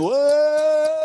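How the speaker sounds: high, loud startled cry; a big high whoa of surprise. Retold or imitated. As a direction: yelp as you fly off the horse. Thrown from spinning horse.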